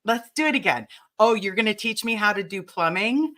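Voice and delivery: normal talking voice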